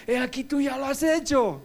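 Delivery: proclama la cita bíblica, más fuerte y más agudo; cita bíblica proclamada. Retold or imitated. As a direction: declara el versículo con fuerza. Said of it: "como dice la Biblia". (proclamando el versículo en voz alta)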